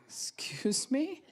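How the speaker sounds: high, slow indignant question; offended. Retold or imitated. Partner taking offence, slow indignant excuse me. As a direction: draw it out, offended.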